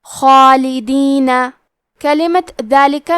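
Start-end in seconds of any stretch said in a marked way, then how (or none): 0.0-1.3 خالدین with a thick خ and long full alif; heavy kha. Shown as a demonstration. Teacher demonstrates heavy kha and long alif, slow خالدین. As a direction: say خالدین slowly with a heavy throaty خ. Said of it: "مد الف کو بھی بھاری آواز میں ادا کریں گے".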